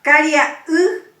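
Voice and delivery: "Caria, uj" with the final "uj" high and loud; stress on final vowel. Shown as a demonstration. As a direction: drive the accent onto the closing "uj". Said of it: "Intensificamos el acento en la última".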